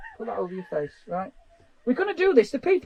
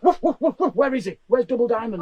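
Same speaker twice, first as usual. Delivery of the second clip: sheepdog voice; 4 dB louder than usual. Retold or imitated. Voicing a sheepdog.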